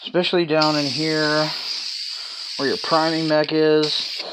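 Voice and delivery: speaking through a respirator; muffled by respirator. Real, not acted. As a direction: voice dulled behind a mask. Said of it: "I am wearing a respirator".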